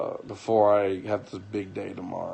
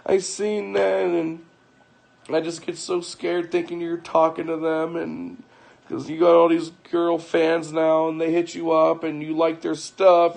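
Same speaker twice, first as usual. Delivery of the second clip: imitating crying wife; 5 semitones higher than usual. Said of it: "she started crying".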